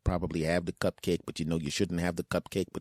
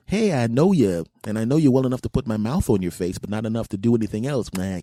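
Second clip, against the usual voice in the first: imagined greeting; 3 semitones higher, 7 dB louder than usual. Retold or imitated. Imagined friendly kiss, acted.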